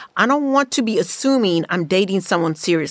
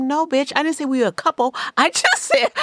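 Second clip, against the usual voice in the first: mock dismissive man; 7 semitones higher than usual. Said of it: "And he's like".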